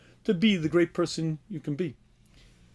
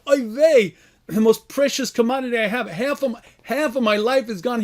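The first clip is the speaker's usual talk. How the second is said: mock crying; 4 semitones higher than usual. Rabbi voicing the sage's lament to God, mock crying. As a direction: bemoan the loss of precious life. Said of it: "he began crying".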